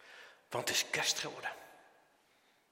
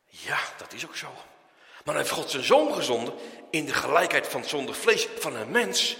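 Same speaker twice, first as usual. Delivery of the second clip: usual speaking voice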